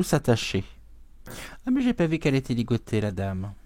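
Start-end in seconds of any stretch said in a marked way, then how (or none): 1.6-3.5 a rushed "oh, I missed that"; sudden surprise. Real, not acted. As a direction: blurt it out fast as it dawns on you. Suddenly notices the tied woman.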